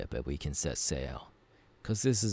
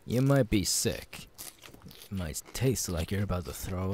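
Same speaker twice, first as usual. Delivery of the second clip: mock warning; 3 semitones higher than usual. Warning after he eats it.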